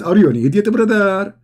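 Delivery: mock exasperated complaint to a messenger; lightly acted indignant haggling, rising in pitch; Muhammad. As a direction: complain like a fed-up prophet in a comic retelling. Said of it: "And then Muhammad, he says".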